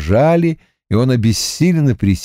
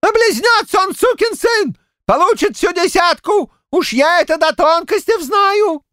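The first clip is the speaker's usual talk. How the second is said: put-on furious old man's yell. A narrator's reading. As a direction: bellow in a rage like a wronged grandad. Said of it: "В ярости возопил дед Щукарь".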